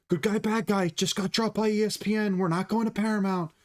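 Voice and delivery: high put-on fight-promoter voice; Chael Sonnen. Fight fan mimicking a fighter's promo, high put-on voice. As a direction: do a high-pitched trash-talker impersonation. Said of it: "that's my Chael Sonnen impression".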